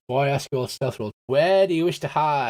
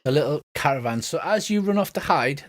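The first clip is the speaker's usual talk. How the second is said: ordinary talk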